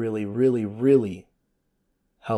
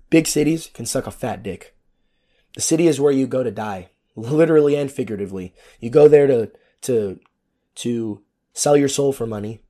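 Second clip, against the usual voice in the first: louder, rising rant against cities; heated rant; 5 dB louder than usual. Real, not acted. Podcaster rants to listeners about big cities, heated and loud. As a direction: spit it out with contempt.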